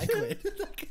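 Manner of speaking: high squeal of laughter on quitting; laughing. Real, not acted. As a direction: laugh as you quit. Quits the show while laughing.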